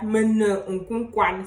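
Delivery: Mene unkounkwan said slowly, stress on mene; slow demo word. Shown as a demonstration. Teacher models the sick phrase slowly. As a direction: draw out each syllable for learners. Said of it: "On peut dire".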